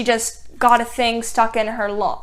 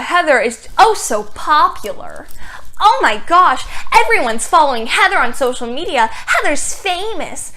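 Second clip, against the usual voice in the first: sarcastic gush; 4 semitones higher than usual. Acted. Sarcastic aside about Heather's popularity.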